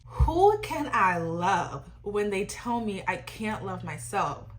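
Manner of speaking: slow, drawn-out famous quote; quoting Brent. Retold or imitated. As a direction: lay the quote out slowly. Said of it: "in the famous words of Brent himself".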